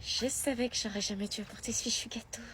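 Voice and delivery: muttered whisper to herself; whispered aside. Acted. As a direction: whisper your regret under your breath. (aparté chuchoté)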